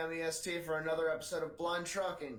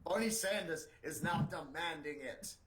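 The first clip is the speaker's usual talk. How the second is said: lightly voiced political ad; mock-solemn candidate announcement; campaign message parody. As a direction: deliver it like a mildly hammed-up fundraising plea.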